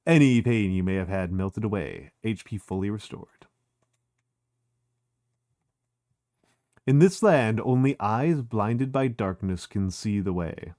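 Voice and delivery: slow, measured narrator read; calm game narration; narrating game text. Acted. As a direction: read it like a storybook.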